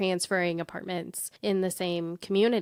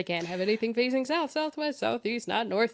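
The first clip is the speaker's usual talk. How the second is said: laughing through quote; 3 semitones higher than usual. Retold or imitated. Caller repeats again, laughing.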